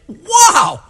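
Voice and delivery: high, excited thanks; relieved dad thanking a stranger; grateful father. Acted. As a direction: gush with relief and gratitude. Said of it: "His father's like".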